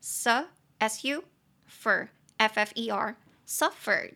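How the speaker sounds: very slow spelling of suffer. Shown as a demonstration. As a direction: spell the word very slowly, letter by letter. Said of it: "两个音节".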